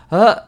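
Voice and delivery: short, startled mock "uh"; deer-in-headlights gasp. Host imitating a bad photo, deer-in-headlights blurt. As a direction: freeze on one startled blurt. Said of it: "deer in headlights kind of photo".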